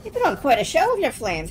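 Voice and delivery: low, solemn spirit voice; ghostly lamplighter. Acted. Reads ghost lamplighter dialogue.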